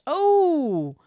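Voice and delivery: loud, high heaving sigh; dramatic sigh. Real, not acted. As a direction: let out a big theatrical sigh. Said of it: "That was a really big sigh".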